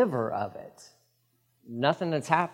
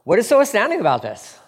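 raised preaching voice to the crowd; loud public appeal; 6 semitones higher, 6 dB louder than usual. Acted. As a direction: call out to the people of Israel, louder. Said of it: "He says".

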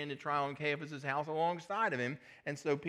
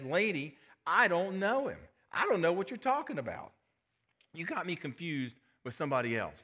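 flustered denial; 3 semitones higher than usual. Acted. Peter denies to servant girl.

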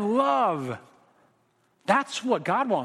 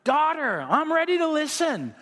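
father answering; 8 semitones higher, slower than usual. Retold or imitated. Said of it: "And he's like".

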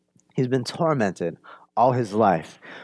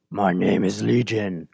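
lower, hollow demon voice answering Jesus; demonic voice; 5 semitones lower than usual. Acted. Preacher voicing the demon Legion to Jesus, low demonic voice. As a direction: let the demon speak low and dark. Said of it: "This demonic voice".

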